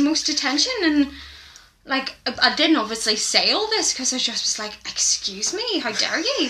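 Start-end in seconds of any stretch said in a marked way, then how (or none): 4.9-6.5 imagined indignation. Retold or imitated. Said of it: "in my head".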